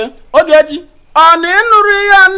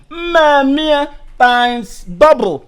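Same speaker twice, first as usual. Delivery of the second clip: slow boast; much slower than usual. Acted. Boasting rich lover.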